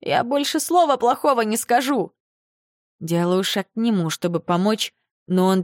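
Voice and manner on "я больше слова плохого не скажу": mumbling through a battered mouth; lisping, mushy desperate promise; toothless mumble. A narrator's reading. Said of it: "Шамкает".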